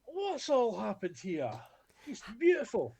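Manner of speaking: high, drawn-out carrying call; grand, nonchalant holler, pitched high; calling across a room. Retold or imitated. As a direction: call out confidently to someone far off. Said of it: "You're shouting it forty feet".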